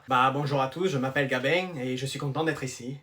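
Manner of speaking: put-on léger accent marseillais chantant; un petit accent du Midi, à peine appuyé; accent du sud. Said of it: "tu l'entends pas à son accent". (voix de nouveau élève avec un soupçon d'accent du sud)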